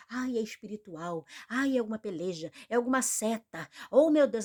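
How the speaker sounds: imitating a believer's fretting, rising to a loud cry; hammed-up church worrier who ends in a loud oh my God; mock fretful believer. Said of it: "o crente, o crente".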